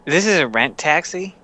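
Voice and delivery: asked in his character's voice; a hint of the character's voice. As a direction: player asking the biker in character. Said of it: "I meant to say, out of character".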